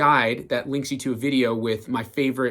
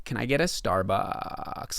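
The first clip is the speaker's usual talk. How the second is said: put-on slow, lazy Valley Girl drawl; 4 dB quieter, slower than usual. Shown as a demonstration. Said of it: "the Valley Girl voice".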